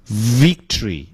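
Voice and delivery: "victory" with a firm buzzed v; lip-teeth V. Shown as a demonstration. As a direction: bite the lip to start "victory". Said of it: "这是这个字母V的发法".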